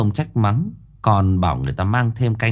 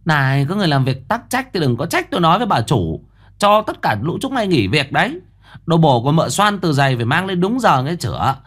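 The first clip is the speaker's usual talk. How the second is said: high, fast, bossy servant voice; shrill-voiced maid; 6 semitones higher, faster than usual. A narrator's reading. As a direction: rattle off threats at the staff, pitched high. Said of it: "Giọng mụ the thé". (mụ giúp việc the thé, nói nhanh và hách dịch)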